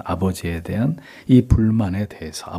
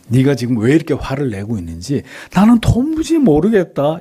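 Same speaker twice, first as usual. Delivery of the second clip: higher-pitched mock exasperation; exasperated; 5 semitones higher, 3 dB louder than usual. Shown as a demonstration. Father who cannot understand his son, exasperated. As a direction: act baffled by the anger, pitch raised. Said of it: "이런 표현이 아니라".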